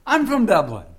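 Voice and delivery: hammed-up Irish accent, loud and high. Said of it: "You got an accent".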